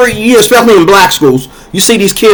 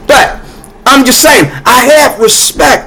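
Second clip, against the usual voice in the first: raised voice; 5 semitones higher than usual. Real, not acted. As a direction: insist on it, voice up high. Ranting about disrespect.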